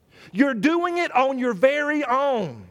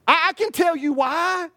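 emphatic shout; 5 semitones higher than usual. Real, not acted. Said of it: "shout heard".

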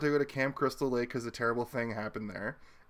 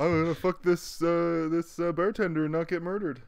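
lightly voiced cartoon bear, a bit higher; a hint of goofy bear; hesitant cartoon bear impression; Yogi Bear; 4 semitones higher than usual. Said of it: "a weird Yogi Bear voice".

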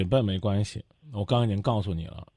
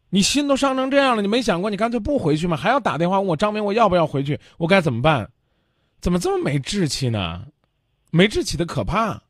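much higher and louder, berating; exasperated scolding; 7 semitones higher, 4 dB louder than usual. Real, not acted. Radio host berates the caller for lacking backbone, loud and exasperated. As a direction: scold her like a fed-up elder.

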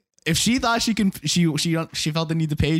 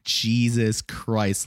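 slow dismay; 4 semitones lower, much slower than usual. Retold or imitated. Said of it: "And I'm like".

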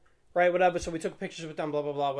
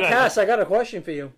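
louder, laughing through the quote; laughing retelling; 4 semitones higher, 9 dB louder than usual. Retold or imitated. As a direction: grin through the setup. Retold own line at meet.

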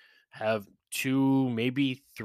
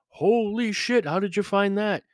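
mock excitement; 8 semitones higher, 4 dB louder than usual. Imitating excited bourbon hunters.

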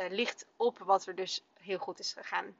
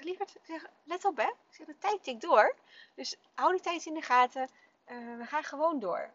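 put-on higher-pitched motherly nudge to a child; retold coaxing of a distracted child; gentle reminder; 6 semitones higher than usual. Mother nudging distracted child back.

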